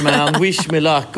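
lightly voiced husband, drawn out. Husband heading in to his wife, slow hammed-up plea. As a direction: stretch the plea out slowly, half joking.

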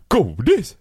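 high, rising, incredulous echo; mock-puzzled repeat of the word; surprised question. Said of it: "Hon bara". (förvånat, ljust eko)

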